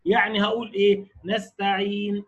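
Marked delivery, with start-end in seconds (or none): 1.2-2.2 نستعين stopped on a silent n, lips rounded right after; نستعين بالإشمام; ishmam demo. Shown as a demonstration. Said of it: "وضم الشفتين كده".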